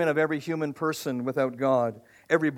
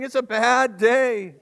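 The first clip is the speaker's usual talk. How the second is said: whining sheep; 5 semitones higher, 3 dB louder, slower than usual. Acted. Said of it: "and they're saying".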